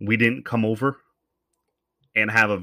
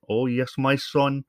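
put-on Newfie accent; 4 semitones higher, slower than usual. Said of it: "with their East Coast accent".

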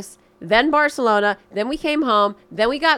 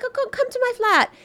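much higher airy hostess voice; mock French-girl invite. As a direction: invite them up like a chic Parisian. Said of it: "And she's like".

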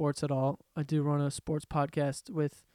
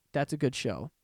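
voice cracking; 4 semitones lower than usual. Real, not acted. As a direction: voice cracks mid-sentence. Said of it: "my voice cracked again".

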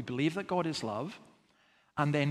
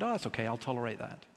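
quick, low, offhand dismissal; throwaway acted nonchalance; mock indifference; 4 semitones lower, 5 dB quieter, faster than usual. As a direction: shrug it off softly and fast. Mimics indifferent bystander to abuse.

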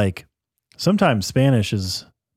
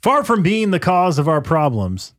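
raised-pitch read-aloud voice; transcription voice; 6 semitones higher than usual. Acted. Host reading a translated speech to co-host, transcription voice. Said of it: "I'll do my best transcription voice".

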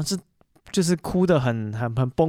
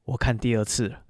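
coldly; 3 semitones lower, 3 dB quieter than usual. Retold or imitated. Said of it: "哥哥冷冷的说一句".

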